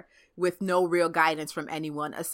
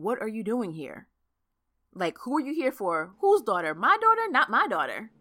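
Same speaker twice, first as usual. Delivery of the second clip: protective dad; 4 semitones higher than usual. Retold or imitated. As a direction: grill the boyfriend like a suspicious dad. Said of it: "He was like".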